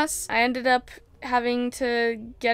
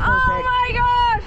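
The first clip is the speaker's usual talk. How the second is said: amazed gasp; 10 semitones higher, much slower than usual. Real, not acted. Finds a giant foot.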